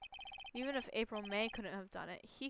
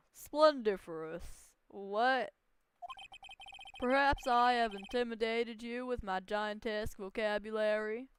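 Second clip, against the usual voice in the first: pompous tycoon; 8 dB louder than usual. Acted. Red White lording his vocabulary over the lawyer, loud and pompous. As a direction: savour every big word like a vain tycoon.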